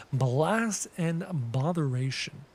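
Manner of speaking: a hint of a formal craftsman; lightly acted game character, not far from own voice; lightly voiced NPC. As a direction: read the game character's lines, a touch stately. Reads NPC dialogue aloud.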